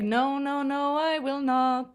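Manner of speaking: lightly voiced stubborn child; a hint of a child refusing, slow; stubborn kid. Son's refusal voiced in story.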